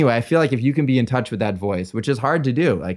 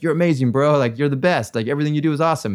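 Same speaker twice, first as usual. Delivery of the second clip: high-pitched mock hype man; gushing flattery; 6 semitones higher, 4 dB louder, faster than usual. Hangers-on praising a successful artist, gushing. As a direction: gush like an adoring entourage.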